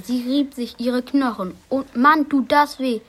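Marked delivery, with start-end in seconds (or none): 1.7-3.0 lauter, genervter Schmerzruf; schimpfend. Acted. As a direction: schimpf über den Schmerz. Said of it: "schimpfte sie". (Annalena schimpft laut vor Schmerz)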